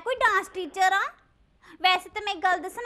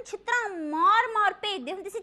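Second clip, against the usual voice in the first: normal talking voice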